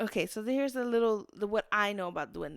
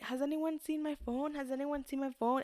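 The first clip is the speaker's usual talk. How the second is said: higher-pitched query to everyone; lightly acted asking around the house; retold calling out; 5 semitones higher than usual. Woman retelling her search for a lost phone, lightly calling out.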